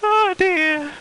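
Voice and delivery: very high, squeaky sigh of laughter; worn out by real giggles; crying with laughter. Real, not acted. Streamer in tears from giggling, laughing helplessly. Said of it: "I'm crying now".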